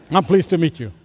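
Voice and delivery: a sour, begrudging greeting. Shown as a demonstration. Preacher greeting a churchgoer with a sour face. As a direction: say it like you tasted vinegar. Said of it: "with a sour look on my face, like I've been baptized in vinegar".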